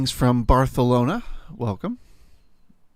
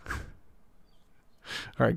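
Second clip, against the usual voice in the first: laughing; 11 dB quieter than usual. Real, not acted. Laughs while signing off.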